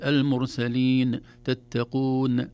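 "المرسلين، تتقون" with a wrong echo after each ن; slow recitation, flicking the final ن with a small bounce; bounced final ن. Shown as a demonstration. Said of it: "ولا نقلقلها". ("المرسلين، تتقون" بقلقلة النون)

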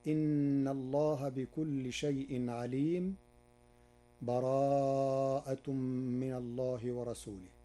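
slow recitation, with a full stop and a breath after عليم; cut with a breath. Shown as a demonstration. Teacher shows the first way, stopping with a breath between the suras. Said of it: "مع التنفس هكذا".

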